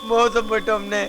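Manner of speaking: tearful lament; crying. Acted. Man laments to his boss that they are ruined, crying. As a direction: say it helplessly through tears. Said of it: "அழுகாதடா".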